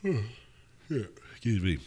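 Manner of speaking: talking through a yawn. Real, not acted. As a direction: yawn mid-sentence, then excuse yourself. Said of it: "I'm yawning and shit".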